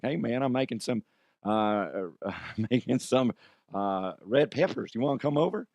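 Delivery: lightly put-on Cajun accent; halting, badly faked Cajun invitation; Brandon Stokely. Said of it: "my horrible impression of, of Brandon Stokely".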